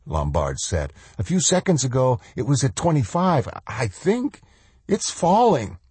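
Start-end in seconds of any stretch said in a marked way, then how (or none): 1.2-5.8 panicked rising voice. Acted. Lombard alarmed, voice rising.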